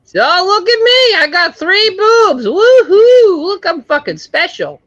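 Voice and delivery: high, slow, show-off woman's voice; hammed-up high voice bragging about three breasts; mock boastful woman.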